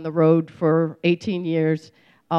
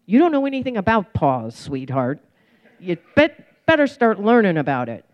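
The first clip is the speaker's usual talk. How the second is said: louder teasing scold, sweetheart put on top; 4 dB louder than usual. Sponsor teasing the fast reader, a firm scold. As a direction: lay down the law with a wink.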